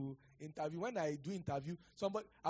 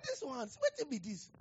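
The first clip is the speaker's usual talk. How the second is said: incredulous aside; 9 semitones higher, slower than usual. Retold or imitated. Astonished aside in pidgin.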